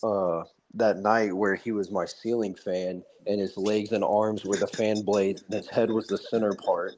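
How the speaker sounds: lightly imitated nonchalance, even and unexcited; Nicholas Irving. Ex-soldier recounting his nightmare about a man he killed, nonchalant. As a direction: tell a nightmare like it's an everyday thing. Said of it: "nonchalant about this shit".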